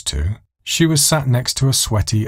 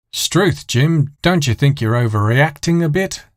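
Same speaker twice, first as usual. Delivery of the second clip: hammed-up soap actor; 6 semitones higher than usual. Soap opera dialogue on TV.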